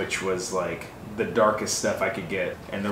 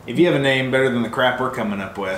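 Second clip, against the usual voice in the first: laughing; 4 semitones higher, 8 dB louder, faster than usual. Real, not acted. Laughs while asking viewers.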